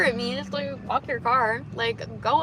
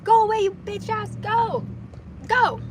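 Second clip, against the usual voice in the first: loud, higher mock yell at a driver; 8 semitones higher, 6 dB louder than usual. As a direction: shout them off in fake road rage. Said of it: "Just kidding".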